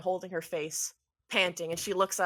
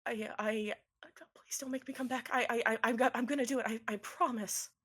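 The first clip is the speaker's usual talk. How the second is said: tearful promise; 3 semitones higher than usual. Acted. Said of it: "some more tears out of her eyes and says".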